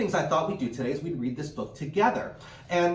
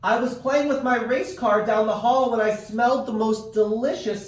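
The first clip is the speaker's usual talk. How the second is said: put-on child voice; 8 semitones higher, 6 dB louder than usual. Boy character speaks in story.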